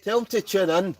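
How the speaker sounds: shouted loud and high; calling out. Real, not acted. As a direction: yell it across the room so he hears. Calling out to sister's man on phone.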